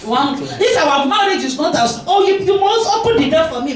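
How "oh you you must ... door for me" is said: high-pitched, imperious imitation; mock demanding wife. Mocked wife to husband about the car door, demanding. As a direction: mimic a wife insisting on special treatment. Mocking demanding wives' expectations.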